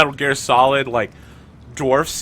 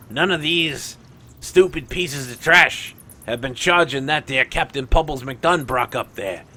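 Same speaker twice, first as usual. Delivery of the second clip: Tenebris. Acted. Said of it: "Tenebris is turning to Simon and is like".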